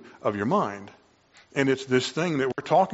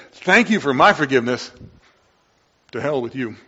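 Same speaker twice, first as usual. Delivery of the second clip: mock ungrateful sinner; 6 dB louder than usual. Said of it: "when we say".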